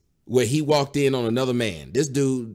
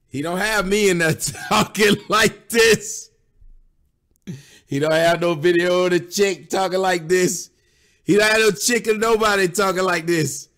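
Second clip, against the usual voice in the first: loud, pressing commentary; emphatic protest; 3 semitones higher, 3 dB louder than usual. Real, not acted. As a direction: hammer the point home to the audience. Commentator indignantly contrasts the story's claims.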